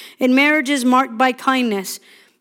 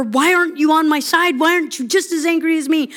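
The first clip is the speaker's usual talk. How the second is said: mock angry plea; 4 semitones higher, faster than usual. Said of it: "I am so angry".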